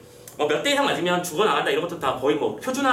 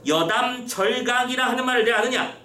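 mildly indignant official, higher and sustained; mock angry command; 4 semitones higher than usual. Disguised official rebukes the denying prisoner, mock angry. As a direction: demand it like a magistrate, understated anger. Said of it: "성을 내서 분부하죠".

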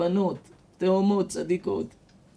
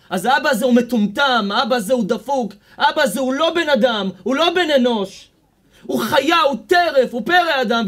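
louder, rising indignant outburst; angry condemnation; 5 dB louder than usual. Real, not acted. Rabbi to the girl, denouncing her absent father angrily. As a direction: hammer each insult harder.

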